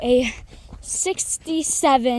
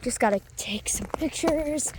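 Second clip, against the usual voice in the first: whispering; 6 dB quieter than usual. Real, not acted. Quietly snapping pictures on trail.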